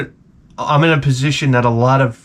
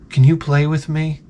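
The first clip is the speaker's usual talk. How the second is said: lightly voiced angelic child; sweet little boy. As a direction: imitate a cute little boy asking gently. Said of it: "in the, in the sweetest, most, like, angelic voice".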